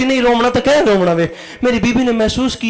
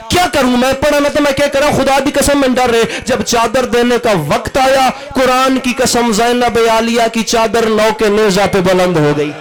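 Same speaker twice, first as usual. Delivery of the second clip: grief-laden oratory for a congregation; impassioned mourning sermon; 2 semitones higher than usual. Acted. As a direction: preach the tragedy at full force. Preacher mourns at full force.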